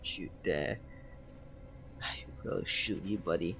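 put-on childish threat. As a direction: threaten like a tough guy. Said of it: "Although I have this sweet voice".

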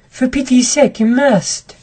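desperate masked woman begging; pleading woman. Acted. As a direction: beg him to get you inside. Masked woman begs narrator.

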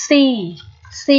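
C said as "see" with a long ee; C drawn out on a long ee. Shown as a demonstration. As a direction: hold the vowel in C, "seee". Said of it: "Đây chắc chắn sẽ là Y dài".

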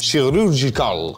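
put-on Italian accent; hammed-up Italian accent on one word. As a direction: say it like a mock Italian. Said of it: "je fais un accent italien".

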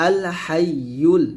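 হাইয়ুল with tongue-middle pressed to palate, "hay-yul"; doubled ya. Shown as a demonstration. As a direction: lean on the "yy" in হাইয়ুল. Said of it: "উচ্চারণটা চলে আসবে". (হাইয়ুল-এর ইয়া চেপে ধরে উচ্চারণ)

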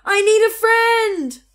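high, slow, sad echoing call; lonely echo. A narrator's reading. The echo repeating the lonely words, high slow call. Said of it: "said the voice from across the pond".

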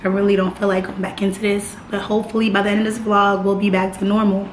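hoarse, raspy morning voice; smoker's rasp. Real, not acted. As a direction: talk through a sore, raspy throat. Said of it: "you know why I sound like I've been smoking a pack of Newports a day".

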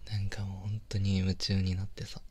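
put-on soft close whisper to his girlfriend; tender boyfriend whisper, almost no voice; intimate whisper. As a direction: breathe the words right by her ear. Whispered chat while watching.

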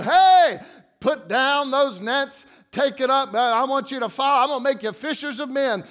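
a hint of a breezy Jesus hailing fishermen; casual Jesus. Jesus calling fishermen today, lightly voiced casual call. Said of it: "if Jesus came along and said".

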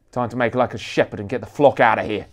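loud, fast and harsh. Acted. Bodyguard ordering his team out, loud and harsh. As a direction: bark it briskly into the earpiece. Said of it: "his voice harsh".

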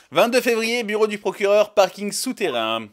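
carton de scène annoncé haut et fort; annonce de lieu. Acted. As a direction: proclame la date, puis ralentis sur la fin. Lit le carton de lieu et date. (annonce sonore du décor)

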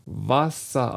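WASSER with a clear, lengthened S; WASSER, hissed S then relaxed A-like ending; careful pronunciation demo. Shown as a demonstration. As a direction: say WASSER in two careful syllables, vocalic ending. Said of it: "um das S zu formen".

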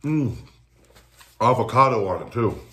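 talking while chewing; muffled by chewing; mouth full of food. Real, not acted. Seen 5: Bit sub just before; mouth working, wiping mouth with napkin while talking.

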